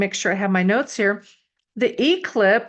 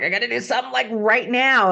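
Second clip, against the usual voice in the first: impulsive Sagittarius; 4 semitones higher than usual. Pretend. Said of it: "you guys are like".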